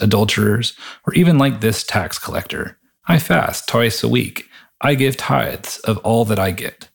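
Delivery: deliberate reading aloud from the Bible; scripture reading. A narrator's reading. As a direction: read the parable aloud in measured phrases. Reads a Bible passage aloud.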